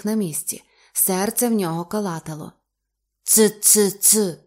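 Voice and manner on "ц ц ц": loud, odd clicking creature voice; smacking creature. Acted. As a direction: click like a strange sea beast. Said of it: "цмокала тварина". (цмокання дивної тварини)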